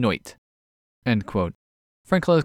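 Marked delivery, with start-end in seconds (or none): 0.0-0.3 "noit", night with an OI vowel; I turned to OI. Shown as a demonstration. Podcast host showing Australian vowel change, I as OI. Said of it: "and I's to O I's".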